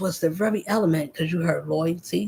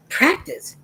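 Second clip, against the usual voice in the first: Practice whispered sharply, pitch jumping high; whispered sarcastic echo of Practice; whispered repeat; 9 semitones higher than usual. Real, not acted. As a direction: hiss the word Practice as a sarcastic aside.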